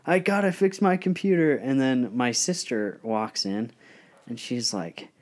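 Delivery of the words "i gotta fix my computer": higher and louder mock panic with a laugh; frantic, laughing while yelling about the money; panicked yelling. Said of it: "freaking out".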